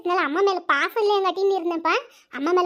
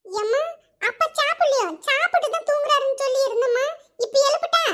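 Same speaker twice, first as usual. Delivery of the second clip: put-on a kid's higher pitched worried question; 4 semitones higher than usual. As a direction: ask mom anxiously in a raised child voice. Kid asks mother, higher voice. (உயர்ந்த குரலில் குழந்தை கேள்வி)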